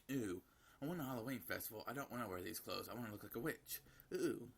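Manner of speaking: a hint of a fussing little girl; whiny little girl. Daughter begging for Halloween dress-up, lightly voiced childish whine.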